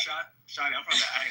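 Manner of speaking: put-on Atlanta street accent. Claiming to a doubting group he's from the A, Atlanta accent. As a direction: talk like you're from Atlanta. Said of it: "this is how I really talk".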